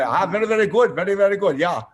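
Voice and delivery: high, hammed-up overjoyed fan; mock fan voice. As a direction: play the gushing fan, a touch over the top. Retold fan praising him.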